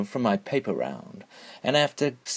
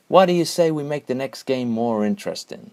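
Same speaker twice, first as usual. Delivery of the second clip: cool; 4 semitones higher than usual. Acted. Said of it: "I said coolly".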